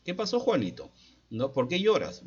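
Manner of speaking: caring mother. Retold or imitated. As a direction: call gently but clearly to the upset child.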